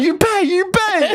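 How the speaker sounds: put-on high, slow Spanish-accented pay demand; mock Spanish demand. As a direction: imitate the waiter with a Spanish accent. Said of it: "this Spanish dude going".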